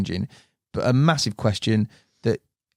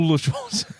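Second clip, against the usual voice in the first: put-on higher, laughing stab at a West Country accent; poor West Country accent; 4 semitones higher than usual. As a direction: badly attempt West Country while corpsing. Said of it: "Do it with the accent".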